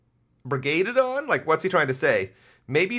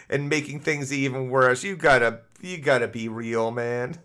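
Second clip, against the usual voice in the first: mock sympathetic letter; 5 semitones lower than usual. Reading the letter on.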